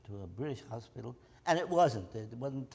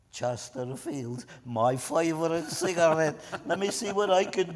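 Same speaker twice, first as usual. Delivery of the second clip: delighted watchman; 4 semitones higher, 8 dB louder than usual. Retold or imitated. Watchman tempted by Chesterfields.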